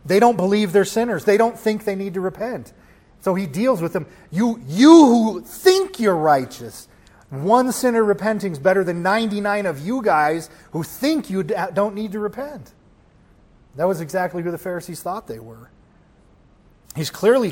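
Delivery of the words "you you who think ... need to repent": sarcastic rebuke. Retold or imitated. Preacher as Jesus dealing with the Pharisees, sarcastic rebuke. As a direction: drive the point home, voice raised. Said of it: "in a way that's just purely sarcastic".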